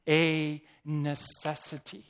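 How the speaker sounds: "necessity" drawn out slowly and leaned on; "necessity" emphasized word by word; stress on necessity. Shown as a demonstration. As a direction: give "necessity" slow, deliberate weight. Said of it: "I emphasize the word necessity".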